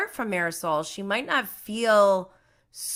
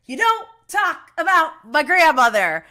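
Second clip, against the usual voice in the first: retold angry yell; 9 semitones higher, 10 dB louder than usual. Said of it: "It's like".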